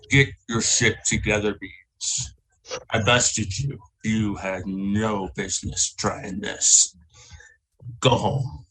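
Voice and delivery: a hint of a stern warrior, slow; gruff dismissal. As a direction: talk down to the beaten bully. Skogar scolds beaten Beans.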